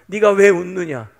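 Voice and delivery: loud, slow, challenging question; confrontational questioning. Acted. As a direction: demand an answer, loud and deliberate. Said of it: "따지듯이 묻습니다".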